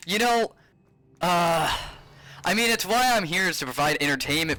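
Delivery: ranting at chat in disbelief; exasperated. Real, not acted.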